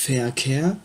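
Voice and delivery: Verkehr said slowly as "ferkea"; V pronounced as F. Shown as a demonstration. Teacher's slow example Verkehr, V said as F. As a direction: open Verkehr with an F sound. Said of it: "se prononce comme un F".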